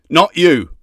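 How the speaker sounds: sharp angry hiss; hissed through teeth. Acted. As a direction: snap it through gritted teeth. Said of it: "hissed through his teeth".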